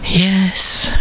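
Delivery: lightly voiced eager Eve. A narrator's reading. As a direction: jump at the idea.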